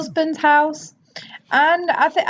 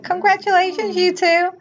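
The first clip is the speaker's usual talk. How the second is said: bitter; 8 semitones higher than usual. Pretend. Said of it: "peering around the corner like".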